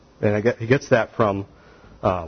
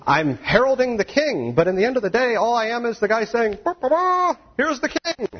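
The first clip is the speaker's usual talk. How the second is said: humble herald; 11 semitones higher than usual. Retold or imitated. John voiced as humble herald.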